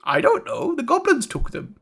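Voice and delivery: soft, wavering voice of a put-upon merchant; downcast captive. Acted. Caged merchant to the one who poked him, meek and soft.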